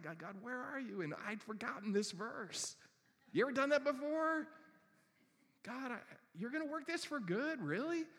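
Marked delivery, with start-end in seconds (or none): 0.0-1.0 quiet plea. Retold or imitated. Wrestling with God quietly. 5.6-8.1 sceptical doubt. Retold or imitated. Doubting God.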